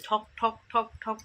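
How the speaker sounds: evenly spaced spoken knocks; imitated knocking noise. Vlogger mimics the noise from car repairs outside, imitated knocking. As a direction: knock it out word by word, "ঠক ঠক". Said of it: "সে আওয়াজ আসছে".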